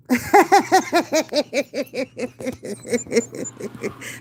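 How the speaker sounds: big hearty laugh. Real, not acted. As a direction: burst out laughing at your own joke. Laughs at own joke.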